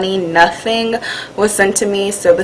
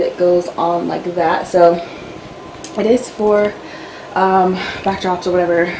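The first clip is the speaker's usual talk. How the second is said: breathless, short of air; talking while catching her breath. Real, not acted. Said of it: "Sorry, I'm out of breath".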